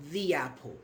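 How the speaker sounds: "the apple" with the said as "thee"; long ee in the, leading into apple; "thee" before vowel. Shown as a demonstration. Teacher shows the vowel rule, "thee apple". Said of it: "only pronounced when following word states with vowel".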